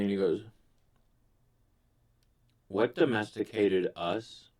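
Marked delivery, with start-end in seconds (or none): 2.7-4.5 slow, heavy sullen question. Retold or imitated. Stoned buddy turns sullen and asks his friend, slow and heavy. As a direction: ask it slowly, gone dark and brooding. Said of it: "he got really, really sullen".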